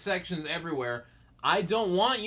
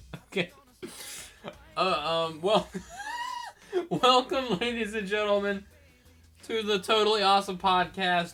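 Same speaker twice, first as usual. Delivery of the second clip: talking through a yawn; 3 semitones higher than usual. Podcast host opening the show with a welcome: yawning while speaking. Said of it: "That was me yawning to start off".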